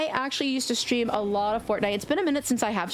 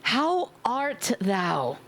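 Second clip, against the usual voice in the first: mock old-fashioned; much slower than usual. Shown as a demonstration. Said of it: "we just gonna say".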